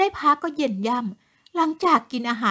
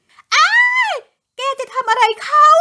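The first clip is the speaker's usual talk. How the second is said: terrified scream; 13 semitones higher, 6 dB louder, slower than usual. A narrator's reading. Woman sees ghost attack husband.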